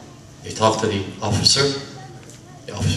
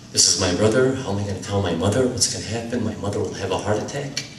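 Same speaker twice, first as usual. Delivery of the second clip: hushed, fast and frightened, sinking softer; a scared young man murmuring his panic quickly; terrified; 3 semitones lower, 5 dB quieter, faster than usual. Retold or imitated. Brother at the police station, dreading telling his mother, hushed and frightened. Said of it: "was terrified".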